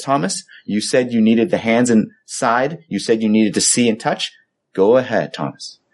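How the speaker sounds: gentle, gracious invitation. Retold or imitated. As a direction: speak as Jesus patiently inviting a doubter. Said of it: "he just turns graciously to Thomas".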